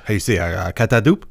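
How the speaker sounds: hammy mock French accent. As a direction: stereotype French accent, hammed up. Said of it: "there it is".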